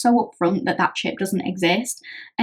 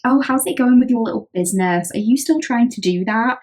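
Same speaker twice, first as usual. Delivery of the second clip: a mock sarcastic, higher sing-song question; sarky; 3 semitones higher than usual. Frenemy needling you about your business, sarky. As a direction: belittle the little business with a sneer. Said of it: "says it in a bit of a sarky way".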